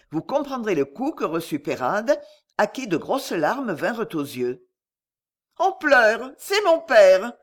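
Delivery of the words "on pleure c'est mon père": put-on high, loud feverish girl voice; delirious girl. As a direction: cry it out half mad. Delirious daughter sees father.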